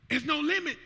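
"There's no limit" called out high; proclaimed. Real, not acted. Pastor proclaiming to church, high strong proclamation.

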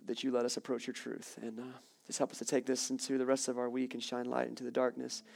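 hushed, sincere pastoral prayer; closing prayer. Acted.

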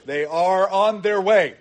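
slow line with weight on "are"; deliberate, emphatic "are"; stress on ARE. Shown as a demonstration. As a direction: draw out "are" to show it is happening. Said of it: "and are is active".

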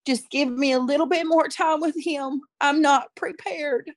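urgent high prayer; retold prayer. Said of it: "I just started praying".

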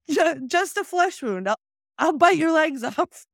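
high, slow mock defiance; imitated defiant knight. Knight with no arms and no legs, mock defiance. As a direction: imitate a knight refusing to give up. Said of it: "he has no arms and no legs".

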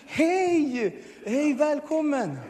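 high, sugary, slow welcome; sweet volunteer greeting. Retold or imitated. Kind church volunteers greeting the newcomer, sugary high welcome. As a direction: coo it like an overly kind volunteer. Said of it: "helt så snälla".

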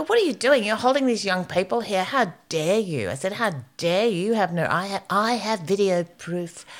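high, indignant telling-off; angry. Retold or imitated. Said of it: "I'm angry and I'm swearing".

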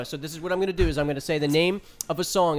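fast talking. Real, not acted. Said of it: "damn auctioneer".

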